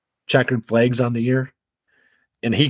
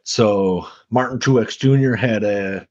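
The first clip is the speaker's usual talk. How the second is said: slow, failed attempt at a Southern accent; half-hearted Southern accent; slower than usual. Co-host put on the spot by partner, half-hearted Southern accent. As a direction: try a Southern accent, not very convincingly. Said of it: "in my best Southern accent".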